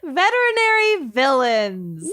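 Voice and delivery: laughing. Real, not acted. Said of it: "Kenyon always fucking makes me laugh".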